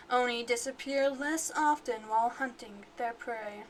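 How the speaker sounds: a hint of a villain voice; bad guy voice. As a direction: read it like a mild villain. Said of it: "like, a villain voice".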